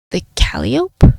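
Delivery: slow breathy whispered echo; whispered question. Acted. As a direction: hush it back, puzzled. Detective echoes in a hush.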